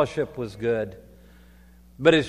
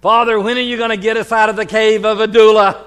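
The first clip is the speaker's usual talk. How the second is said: quoted plea; 6 semitones higher, 11 dB louder, faster than usual. Retold or imitated. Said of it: "As someone said to me".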